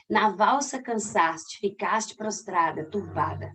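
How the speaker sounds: slow, measured poetry reading; poem recital. Acted. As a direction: read each line slowly.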